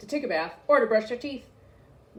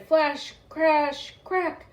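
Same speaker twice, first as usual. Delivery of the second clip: dramatic; 7 semitones higher, 4 dB louder, much slower than usual. A narrator's reading. Dramatic storm sound words.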